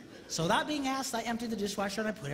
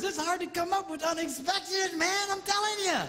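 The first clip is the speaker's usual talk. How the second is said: usual speaking voice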